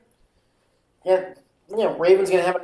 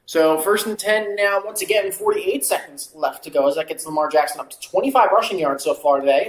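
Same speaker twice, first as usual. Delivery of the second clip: live play-by-play; 3 dB louder than usual. Acted. Calling a punt return for viewers, play-by-play. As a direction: follow the punt with a building call.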